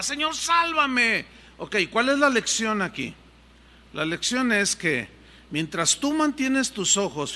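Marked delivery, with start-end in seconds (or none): 0.0-1.2 slow pleading cry. Acted.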